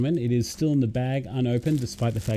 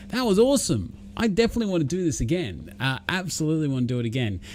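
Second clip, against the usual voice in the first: quick, higher-pitched replay of being thrilled; retold excitement; 5 semitones higher, faster than usual. Streamer recalls coming off his first stream, retold excitement. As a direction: relive the buzz, starting high and rattling on fast.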